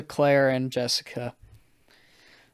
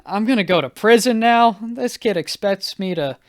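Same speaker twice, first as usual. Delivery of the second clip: mildly panicked worrying, pitched up in places; retold freak-out; 4 semitones higher than usual. Guest told he's going to prison, mock freak-out. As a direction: spin out into comic dread. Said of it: "I'm freaking out".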